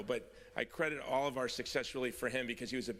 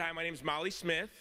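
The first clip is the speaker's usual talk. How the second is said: put-on amateur Louisiana accent, pitched up; 4 semitones higher than usual. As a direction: imitate a Louisiana lady's Southern accent. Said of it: "I'm not good with accents".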